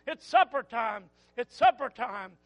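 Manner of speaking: mother calling her child home to supper, lightly voiced. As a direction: call the kids in for supper. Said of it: "I can still hear her calling".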